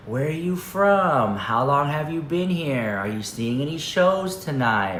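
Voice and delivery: slow, droning stock questions; monotonous small talk. Retold or imitated. Russian guy in the pool quizzing them, slow droning monotone. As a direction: drone through the questions like a bored script. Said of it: "it's just so monotonous".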